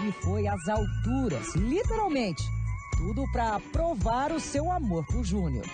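upbeat TV report voiceover; news narration. Acted. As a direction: read it like a TV feature reporter. (narração de reportagem de TV)

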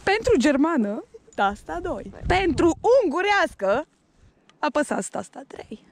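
lightly voiced automated phone menu; mock phone menu. Joking with her friend, a mild phone menu announcer voice. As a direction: read it out like a hotline recording.

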